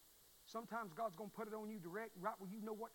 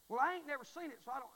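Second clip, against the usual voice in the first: mocking doubter; 5 semitones higher, 7 dB louder than usual.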